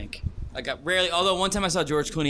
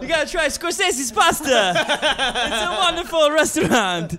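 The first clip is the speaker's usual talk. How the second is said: laughing; 10 semitones higher, 4 dB louder, slower than usual. Real, not acted. Joking about director restaurants.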